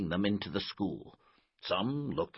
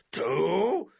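higher, louder, rising count; loud countdown; 10 semitones higher, 8 dB louder than usual. Acted. Coach counting before swatting a wasp, louder. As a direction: stretch it upward with mounting suspense.

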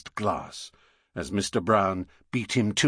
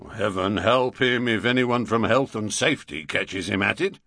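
tart London bobby retort; london policeman; 4 dB louder than usual. Acted. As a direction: snap it back as a copper. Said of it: "retorted the policeman".

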